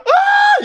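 high mock shriek of fans at the screening; imitated audience scream. Mimicking fans shrieking at the movie, high mock scream. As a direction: shriek like a fan in the cinema. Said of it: "People were".

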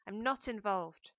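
slow, loud angry snap; a slow loud snap of denial; snapped. A narrator's reading. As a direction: bite the words off, slowly and loudly. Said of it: "I snapped".

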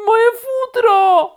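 very high, loud, drawn-out cry; outraged shriek. A narrator's reading. Bark falls on rabbit, shrieking about fur. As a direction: shriek it in dismay. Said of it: "krzyknął królik".

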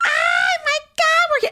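high, loud imitation of mom on the phone; loud mock mom. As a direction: shout it like mom calling relatives. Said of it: "she's talking so loud".

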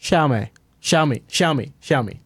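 Xiaomi said as shaumi, tried over and over; unsure tries at Xiaomi; trying pronunciations. Shown as a demonstration. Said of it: "actually pronounced".

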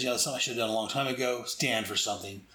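quick line dropping low on stand for something; heroic resolve. Retold or imitated. Captain Adam resolves to take a stand, low and firm. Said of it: "He says".

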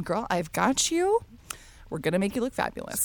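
lightly voiced flamboyant barber; a hint of a sassy stylist; sassy hairdresser. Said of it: "This is my impersonation of him".

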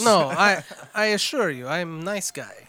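mock Russian accent. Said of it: "That's your Russian?".

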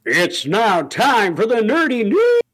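slow singsong jingle climbing very high; high-pitched announcement. Pretend. Co-host announces the news segment, high-pitched singsong. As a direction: draw it out, rising to a held high note. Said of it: "As soon as you go high pitch".

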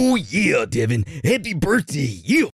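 high, hammed-up wrestler voice; Macho Man Randy Savage. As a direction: belt it out like a pro-wrestling promo. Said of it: "go Macho Man Randy Savage".

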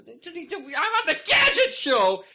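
laughing. Acted. Mock-outraged rant, laughing.

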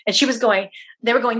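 ordinary talk

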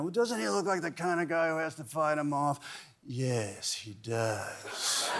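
a hint of sultry Mrs Robinson. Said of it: "the way she spoke".

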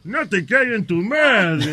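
a touch slow and deliberate; slow deliberate version for the others. Shown as a demonstration. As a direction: lay it out slowly. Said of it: "Te lo voy a decir en Leo".

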